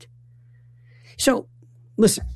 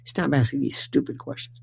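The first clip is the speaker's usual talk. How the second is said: mock parental hush, unvoiced then soft; a quiet imagined scold; 6 dB quieter than usual. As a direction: hiss the scolding they never said. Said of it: "They never said".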